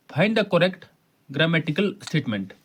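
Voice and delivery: the instruction read out slowly; slow question reading. Shown as a demonstration. Teacher reads the next question to students, slowly. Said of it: "next है".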